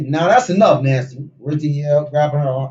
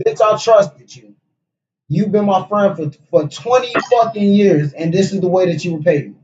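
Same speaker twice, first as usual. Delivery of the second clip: mock betrayed friend; 3 semitones higher than usual. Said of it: "Gloria said".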